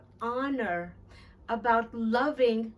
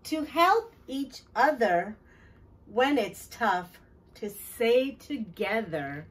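put-on reading to children. A narrator's reading. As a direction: read each line like a promise to the kids. Reads picture book aloud.

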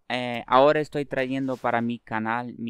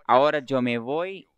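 loud, drawn-out farewell; loud slow goodbye; 9 dB louder, slower than usual. Real, not acted. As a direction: call out the goodbye slowly and loudly.

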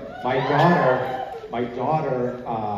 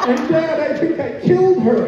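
put-on high, louder child's voice; little girl; 10 dB louder than usual. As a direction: blurt it like a proud small girl. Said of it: "And she said".

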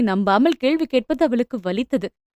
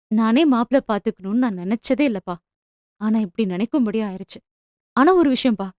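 softly. Acted. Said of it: "என்றாள் மென்மையாக".

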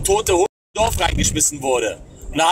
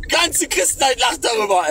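laughing while talking; 2 semitones higher than usual. Real, not acted. Still laughing after the burst.

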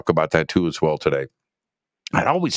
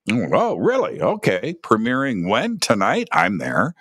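higher-pitched questions, quick decision at the end; mock eager self-talk, pitch lifting on each question; acted intrigued reaction; 5 semitones higher than usual. Host replays reading a Matrix premiere listing, acted intrigue.

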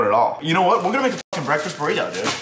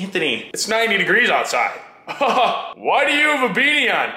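mocking commenter; 5 semitones higher than usual. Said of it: "comments were gonna be like".

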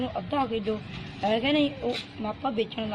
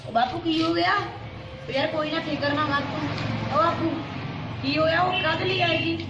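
higher, louder anxious questions; worried alarm; 6 semitones higher, 4 dB louder than usual. Acted. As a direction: rush to find out what happened. Son anxiously asks father.

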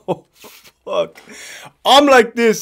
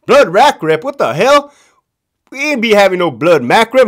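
raised, indignant retold comeback; mock incredulous; 4 semitones higher, 4 dB louder than usual. Captain B cuts in on Captain C, mock incredulous. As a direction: imitate a captain scoffing in disbelief.

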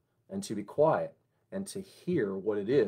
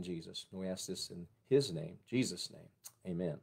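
opening prayer. Acted.

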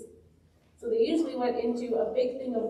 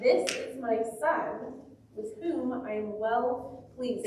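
voice of God; slower than usual. Retold or imitated. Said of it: "there was a voice that said".

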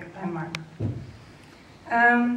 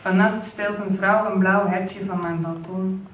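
slow, measured recital with pauses between phrases; poem reading; 3 dB louder, slower than usual. Acted. Poet reads from a new collection to the launch audience, slow poetry recital. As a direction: read the poem out slowly, weighting key words.

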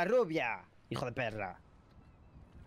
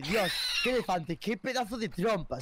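suggestive demo line. Shown as a demonstration. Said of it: "A ver, puedes decir".

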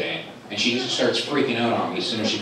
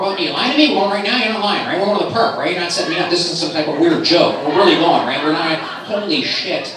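excited dog; 4 semitones higher, 4 dB louder than usual. Pretend. Dog's excited voice.

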